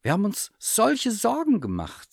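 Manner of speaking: high, emphatic worried relief; relieved outburst. A narrator's reading. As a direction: let the worry burst out, high-pitched. Relieved mother after the search.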